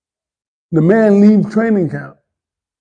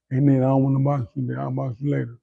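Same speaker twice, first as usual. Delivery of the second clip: hushed, lower mock whisper; retold whisper; 3 semitones lower, 9 dB quieter than usual. Boxer confiding he'd rather not spar, retold in a hushed voice. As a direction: imitate a furtive word in the ear, softly. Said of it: "whisper in my ear".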